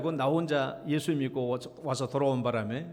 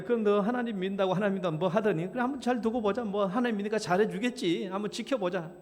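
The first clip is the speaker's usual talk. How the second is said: higher, sneering friends' jeer; 친구들이 비웃으며 놀리듯; mocking taunt; 4 semitones higher than usual. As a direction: scoff at the believer, half-joking. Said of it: "조롱삼아 얘기해".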